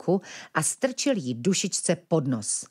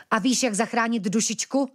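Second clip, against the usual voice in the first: perked up; 6 semitones higher than usual. Acted. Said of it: "Ožil Ventilek".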